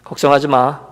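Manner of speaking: low, soft promise; imitated husband softly relenting; moved concession. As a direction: give in quietly, as if touched. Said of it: "감동을 받아 그러는지 이러더라는".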